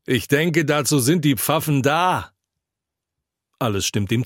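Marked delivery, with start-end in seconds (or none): 0.0-2.3 raised-pitch puzzled objection; astonished. A narrator's reading. Drinker questions what pastors are for, astonished. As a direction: pitch it up, mildly amazed. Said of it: "sagt einer erstaunt".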